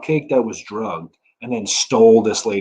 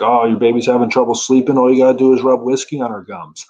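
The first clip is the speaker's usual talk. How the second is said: lightly voiced older lady, louder; mildly hammed-up advice-giver, pushed louder; older lady advising; 4 dB louder than usual. Comic imitating older lady giving baby advice, lightly acted. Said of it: "older lady trying to give me advice".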